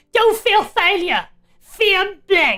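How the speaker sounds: slow, drawling, weak attempt at TV chef accent. Playing a card game, doing a Gordon Ramsay voice. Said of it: "Imagine this is supposed to be, like, Gordon Ramsay".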